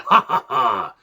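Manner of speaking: mock evil chuckle; supervillain laugh. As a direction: laugh like a cartoon villain. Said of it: "laughing like a supervillain".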